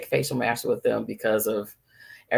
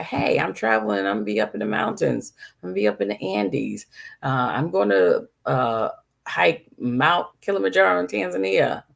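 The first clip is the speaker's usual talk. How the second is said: higher-pitched patient phoning the doctor; acted patient's call; 7 semitones higher than usual. Traveler calling their doctor about mountains, acted phone-call voice. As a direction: lift the pitch, as if announcing travel plans by phone. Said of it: "You call your doctor up and say".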